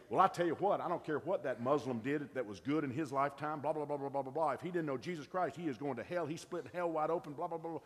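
hammed-up hellfire know-it-all; self-righteous judgment. A judgmental believer condemning the Muslim, with mock preachy certainty. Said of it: "we run people away when we say".

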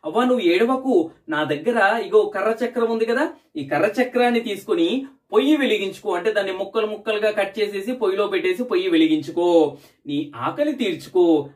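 put-on kind boy comforting. Boy comforts old woman.

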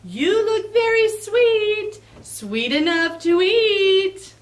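fox shouting back. Acted. Fox chasing Cookie, calling back high and loud. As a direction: call after him hungrily. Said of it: "shouting back".

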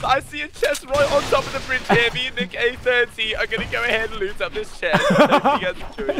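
high, excited YouTuber commentary; Ali A impression. Streamer announcing a chest find as Ali A. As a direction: narrate loot like a hyped video host. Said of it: "I'll try Ali A".

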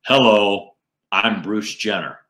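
lady puppet's mock deep voice. Lady puppet greets the audience, deep-voiced joke introduction. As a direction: open on a strong hello, sinking into a man's register. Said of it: "in a deep voice, she says".

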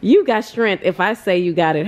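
a touch of a gruff mentor pushing back; lightly voiced Moody, indignant then firm; Moody's mock challenge. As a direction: raise the eyebrow at that excuse. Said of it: "Moody said".

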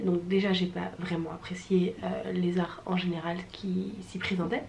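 voiceless confiding whisper. Real, not acted. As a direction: whisper it like a confession. Confiding her dislike of exhibition.

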